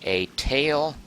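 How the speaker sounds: halting, slow dictation to oneself; drawn out with gaps between the pieces; slow word-by-word. Real, not acted. Notes the vote down word by word.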